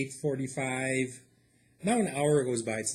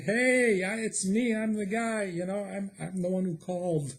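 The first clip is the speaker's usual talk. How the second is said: calling out to the paramedics; 7 semitones higher than usual. Retold or imitated. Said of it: "I'm like".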